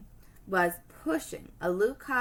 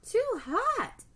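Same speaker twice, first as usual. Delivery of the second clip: put-on girl's complaint; 13 semitones higher than usual. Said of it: "she cried out".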